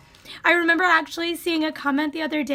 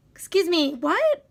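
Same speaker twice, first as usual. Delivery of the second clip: indignant; 2 semitones higher than usual. Real, not acted. Indignant reaction.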